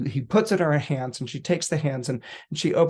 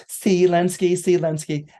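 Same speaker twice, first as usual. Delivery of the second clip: teasing taunt; 4 semitones higher, 5 dB louder than usual. Retold or imitated. Olga taunts her fiancé while dancing.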